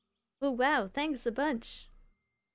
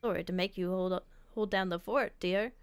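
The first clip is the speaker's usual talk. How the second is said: lightly voiced elderly character; a hint of an old grandparent; old person voice. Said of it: "they both have the same old person voice".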